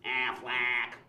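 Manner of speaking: very slow, honked-out Wisconsin vowels; exaggerated Wisconsin accent, goose call. Shown as a demonstration. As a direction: honk the name like Wisconsin geese. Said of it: "sounds like a flock of geese".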